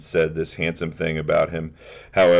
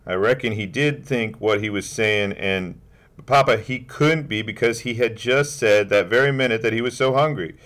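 put-on child's earnest protest; 5 semitones higher, 3 dB louder than usual. Child arguing with papa.

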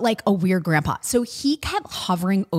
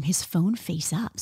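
whisper; 6 dB quieter, slower than usual. Acted. Gossiping about the mafia guy's phone.

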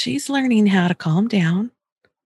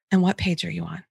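soft, easy, quieter voice; gently steer back to work; calm redirect; 2 semitones lower, 5 dB quieter, faster than usual. Shown as a demonstration. Parent calmly redirecting a whining child to the page. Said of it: "your tone of voice, super important".

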